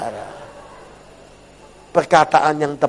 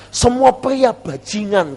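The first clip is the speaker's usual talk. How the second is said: high, slow, mildly acted bitterness; mock bitter outburst; 6 semitones higher, slower than usual. Jilted woman venting to her pastor, mock bitter outburst. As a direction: stretch out the sweeping complaint, pitched high.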